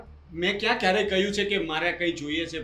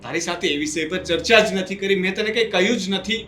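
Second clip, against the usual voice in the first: louder, pleading denial to an accusing brother; upset protest; 5 dB louder than usual. Acted. Younger brother protesting the accusation, raised voice. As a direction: push back hard, hurt and indignant. Brothers quarrel over property split.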